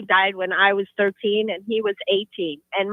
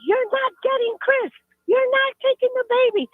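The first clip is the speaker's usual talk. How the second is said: much higher, desperate; defiant mother; 13 semitones higher than usual. Retold or imitated. Mom defending her baby from the ghost, desperate. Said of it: "And she's like".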